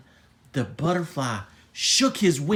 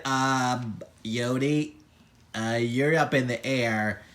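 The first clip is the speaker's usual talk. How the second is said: stunned understatement; 4 semitones lower, 3 dB quieter than usual. Acted. Stunned unicorns notice floating.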